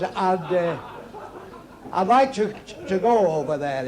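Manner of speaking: halting stammer, stalling on "I'd" and "to"; bad stutter. Drunk stutterer telling his mate his wish, stammering. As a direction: get stuck on small words, repeat them with gaps. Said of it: "One stuttered very badly".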